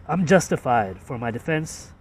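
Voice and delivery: Boston accent with R dropped in "fired"; lightly done Boston accent. Shown as a demonstration. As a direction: rhyme "fired" with "justified", Boston style. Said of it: "that's a Boston accent, right".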